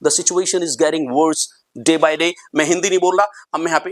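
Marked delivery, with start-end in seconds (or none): 0.1-2.3 slow dictation. Shown as a demonstration. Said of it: "मेरे साथ repeat करो".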